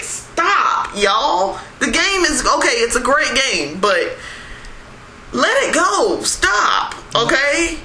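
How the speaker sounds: high, exasperated begging to stop; exasperated pleading. Retold or imitated. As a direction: plead with the fans to just stop. Exasperated plea to gamers.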